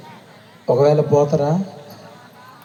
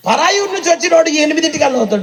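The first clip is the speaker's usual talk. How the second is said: mock high-pitched; 11 semitones higher than usual. Mocking latecomers.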